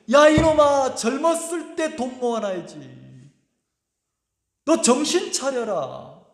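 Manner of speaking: mild mock telling-off, slowing on the final warning; retold fatherly rebuke. Father scolding his son for choosing faith, imitated rebuke. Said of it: "어리석다고 미련하다고 막 책망하셨단".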